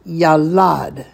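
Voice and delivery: "Yalad" as ya-LAD, both vowels ah; pronunciation drill. Shown as a demonstration. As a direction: lead the class in a clear "Yalad". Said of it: "Let's all say it together".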